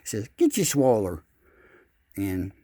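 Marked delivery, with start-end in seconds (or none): 0.4-1.2 loud call to the fish; catchphrase call; bait call. Pretend. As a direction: holler it out over the lake. Reading the sweatshirt catchphrase.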